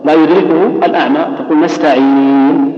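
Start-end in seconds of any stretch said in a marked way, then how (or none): 1.6-2.7 نستعين drawn out slowly, stopping without any audible final vowel; silent ishmam ending. Shown as a demonstration. Teacher demonstrating ishmam, long نستعين with vowelless ending. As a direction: stretch the ee of نستعين and close on bare noon. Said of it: "بالشكل هذا".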